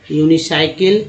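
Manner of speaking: यूनिसाइकिल slowly, starting यूनी; slow word demo. Shown as a demonstration. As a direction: sound out यूनिसाइकिल in parts, EE after N. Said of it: "यूनी बोलते हैं". (यूनिसाइकिल को धीरे, यूनी से शुरू करके)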